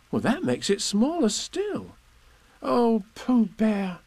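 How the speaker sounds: put-on high eager boy's voice; a young boy pleading with Owl; urgent Christopher Robin. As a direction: rush to the rescue like a small boy.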